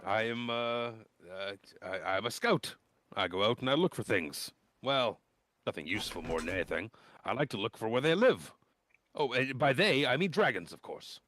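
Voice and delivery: put-on nervous teen introducing himself; eager boy scout. GM plays the young scout Klistron.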